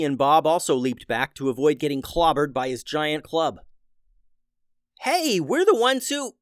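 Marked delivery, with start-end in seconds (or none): 5.0-6.4 high, loud call cut short; starting to yell. A narrator's reading. Addison protesting to the Minotaur, high loud yell. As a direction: shout a protest that gets cut off. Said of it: "Addison began to yell".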